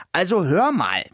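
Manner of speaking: a city mouse bristling with offence; indignant. Acted. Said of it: "sagte ich aufgebracht".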